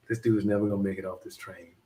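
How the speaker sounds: amused, quick aside through a laugh. Retold or imitated. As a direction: chuckle it as a private thought. Laughing retelling inner thought.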